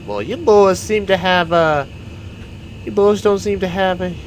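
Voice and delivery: high-pitched Southern lady voice; put-on high lady voice. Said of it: "and the lady is just like".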